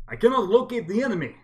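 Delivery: flat, loud computer announcement; ship intercom voice. Acted. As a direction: read it like a ship's AI over speakers. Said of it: "you can hear in the ship's, uh, intercoms".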